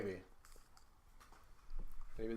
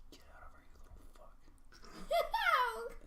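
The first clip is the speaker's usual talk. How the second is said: slow, menacing in-character whisper; 4 dB louder, slower than usual. Acted. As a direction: whisper it slowly at the creature. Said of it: "I'm gonna whisper".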